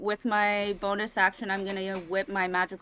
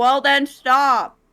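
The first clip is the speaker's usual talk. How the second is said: very loud, high-pitched yell; 5 semitones higher, 10 dB louder than usual. Voicing a player character shouting back at an enemy: yelling. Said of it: "So then I yell".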